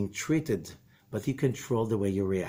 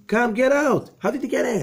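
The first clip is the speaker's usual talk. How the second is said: loud, high-pitched exasperated plea; acted insistent call; calling someone out; 11 semitones higher, 6 dB louder than usual. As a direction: urge them out, voice raised and pitched up. Calling to man in cesspool.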